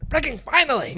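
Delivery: loud, very high burst of relief; exasperated cheer. Retold or imitated. Reader reacting as Painter stands up to Yumi, exasperated cheer. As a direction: cheer it out, long overdue.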